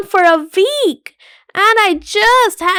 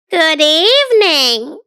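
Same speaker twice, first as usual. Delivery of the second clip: high silky voice; 3 semitones lower than usual. Acted. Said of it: "he said in a high, silky voice".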